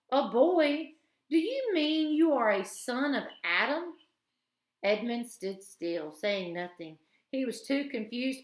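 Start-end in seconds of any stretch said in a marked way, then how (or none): 0.1-4.0 sharp, high astonished queen; surprised queen. A narrator's reading. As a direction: pounce on the word.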